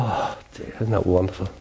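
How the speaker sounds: usual speaking voice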